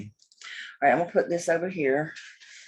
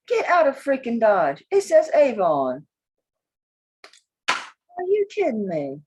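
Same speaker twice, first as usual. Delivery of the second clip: high, loud disbelief; loud, incredulous outburst; astonished discovery; 5 semitones higher, 5 dB louder than usual. Real, not acted. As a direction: exclaim it like you can't believe your find. Amazed to find Avon mark.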